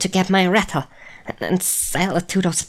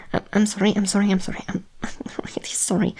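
frantic apology; 3 semitones higher, much faster than usual. Acted. Frantic apology after hurting him.

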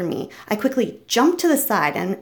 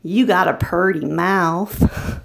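slow, lower Southern hillbilly drawl; Deliverance backwoods drawl; 4 semitones lower, slower than usual. Acted. Quoting Deliverance at a tied-up man, slow Southern drawl. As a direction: stretch it out in a backwoods Southern accent. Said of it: "I made a Deliverance reference".

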